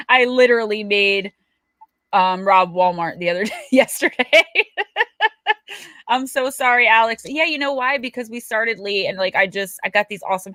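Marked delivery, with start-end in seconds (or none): 4.5-5.8 a high burst of real laughter. Real, not acted. Streamer laughs about making her niece rob Walmart, high and real.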